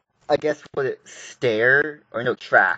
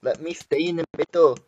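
higher pitch, accidental PewDiePie accent; 4 semitones higher, 3 dB louder than usual. Real, not acted. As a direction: slip slightly into PewDiePie's accent. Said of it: "Why am I sounding like PewDiePie now?".

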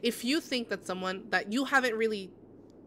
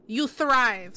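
emphatic encouragement; 3 semitones higher, 8 dB louder than usual. Real, not acted. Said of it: "repeats encouragement".

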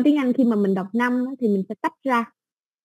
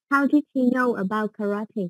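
model reading repeat. Shown as a demonstration. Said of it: "tiếng Anh thì mình sẽ đọc đó là karate".

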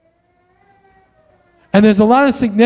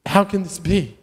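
softer, earnest "How can this be?" asked gently; sincere honest question; 6 dB quieter than usual. Shown as a demonstration. Abraham asking God honestly, softly sincere. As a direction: ask it as a real plea to understand. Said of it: "he's saying".

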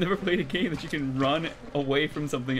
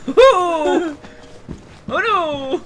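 surprised; 13 semitones higher, 12 dB louder, much slower than usual. Real, not acted. Reacting to scare.

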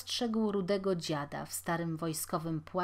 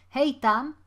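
loud, higher shout to someone a little way off; sudden call; 6 semitones higher, 10 dB louder than usual. A narrator's reading. Taller boy hailing the younger one, calling out. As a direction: call out abruptly. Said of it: "zawołał nagle wyższy".

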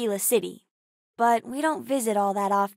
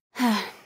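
exhaled sigh; short sigh; 3 semitones lower than usual. Acted. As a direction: let out a sigh. Sigh between game lines.

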